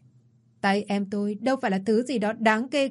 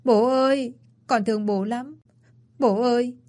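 wailing cry; 3 semitones higher than usual. Acted. Son clinging to his dead father, wailing. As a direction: cry out to him in grief. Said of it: "ôm chầm lấy bố mà gào lên".

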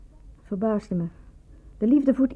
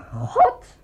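exasperated cry. Acted. Exasperated outburst.

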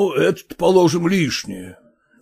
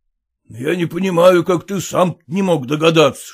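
ordinary delivery, nothing marked

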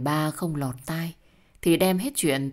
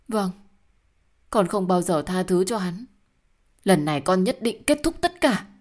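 louder, higher, determined vow; resolute anger; 3 semitones higher, 4 dB louder than usual. Acted. Daughter vows to her mother to end it all, loud and firm. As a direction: swear it with anger.

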